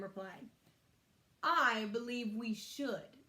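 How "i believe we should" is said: lightly voiced boy, slow and firm; unhurried, measured line; slow, deliberate Barnaby. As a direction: take your time, sound sure. Barnaby B speaking slowly.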